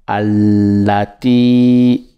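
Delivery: Allati slow, weight on the doubled l; leaning on la. Shown as a demonstration. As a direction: press on the la of Allati. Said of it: "On s'appuie sur la".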